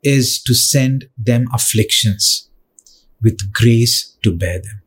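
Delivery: slow, deliberate, weighing each word; slow emphasis. Shown as a demonstration. Preacher slowly impressing a verse on the church. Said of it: "preacher repeats line slowly".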